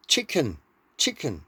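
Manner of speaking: blur the k into a g in chicken; Danish chicken. Shown as a demonstration. Danish speaker showing how Danes say chicken. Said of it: "many Danish people just say".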